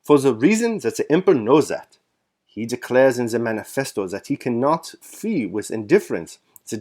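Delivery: bad German accent, pressing the point. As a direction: lay on the German accent with conviction. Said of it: "speaking with a German accent, which I am going to butcher".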